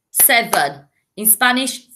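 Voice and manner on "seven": two syllables. Shown as a demonstration. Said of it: "two syllables".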